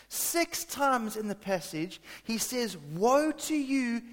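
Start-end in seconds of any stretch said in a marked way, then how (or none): 2.8-4.0 slow, forceful pronouncement; strong exclamation. Retold or imitated. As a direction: drag it out as a solemn warning. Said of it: "Exclamation mark".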